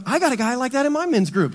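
light voice of a churchgoer pointing someone out; congregant aside. Retold or imitated. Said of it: "some of you are like".

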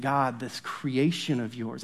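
a sample prayer whispered at a sunrise; hushed awe. Shown as a demonstration. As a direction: breathe it out in wonder. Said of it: "Sometimes they sound like this".

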